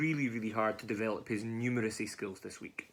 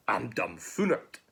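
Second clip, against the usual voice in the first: slow, stretched-out bewilderment; dumbfounded gruffalo; slower than usual. Acted. Gruffalo amazed hoolet fled, slow bewilderment. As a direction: drag it out, baffled.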